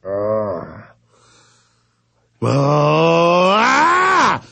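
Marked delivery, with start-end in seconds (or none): 2.4-4.4 rising anguished groan; exasperated groan. Real, not acted. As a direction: groan out in frustration. Exasperated groan mid-rant.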